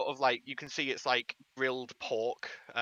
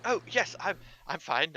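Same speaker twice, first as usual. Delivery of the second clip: high, loud, apologetic little gnome; tiny gnome diplomat bumping into a stranger; flustered gnome; 5 semitones higher, 3 dB louder than usual. Acted. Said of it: "And they sort of go".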